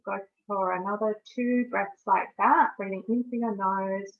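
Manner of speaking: measured meditation guide with long pauses; guided meditation. Acted. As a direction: guide listeners through each breath, leaving space between phrases.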